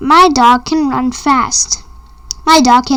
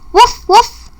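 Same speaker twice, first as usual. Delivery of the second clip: dog bark; 9 semitones higher, 4 dB louder than usual. Pretend. Dog barks in picture book.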